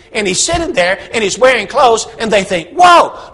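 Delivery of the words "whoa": high, loud whoa of astonishment; amazed. Acted. Townsfolk staring at the pigs in the lake, amazed. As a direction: gasp it out in awe. Townsfolk see Harry healed.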